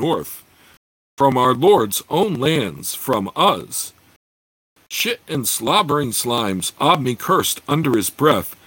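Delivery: steady, measured reading of a fantasy novel; story narration. A narrator's reading. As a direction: read it like an audiobook narrator. Reads a fantasy novel aloud.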